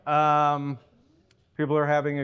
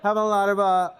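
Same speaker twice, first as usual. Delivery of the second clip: satellite phone delay; 3 semitones higher than usual. Acted. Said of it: "having some technical difficulties".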